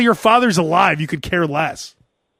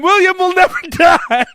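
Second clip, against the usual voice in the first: dark lord; 7 semitones higher than usual. Pretend. King plotting orders.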